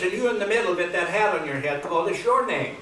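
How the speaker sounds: single him out with mild mock authority; questioning sheriff. Sheriff questioning the pig in the hat, lightly acted questioning. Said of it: "the sheriff walks over to the car".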